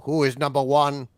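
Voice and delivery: insistent British prisoner; pointed British demand; British accent. Acted. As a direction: press the question in a British accent. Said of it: "more of an actual British accent".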